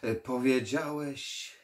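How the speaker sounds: put-on slow, curious old vampire; 흥미를 보이는 늙은 흡혈귀; interested vampire. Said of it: "można było wyczuć zainteresowanie".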